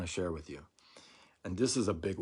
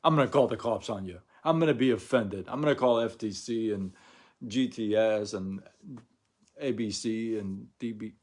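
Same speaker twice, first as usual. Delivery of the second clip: mock indignant caller; 6 dB louder than usual. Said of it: "They're not saying".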